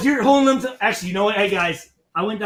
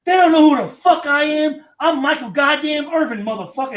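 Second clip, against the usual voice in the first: imitating Michael Irvin; 3 semitones higher than usual. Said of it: "He's like".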